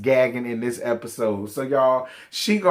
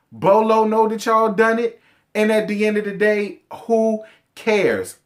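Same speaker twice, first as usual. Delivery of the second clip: heated call-out; 7 semitones higher than usual. Real, not acted. Ranting at Portia to just own it. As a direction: pile it on, pitch rising each time.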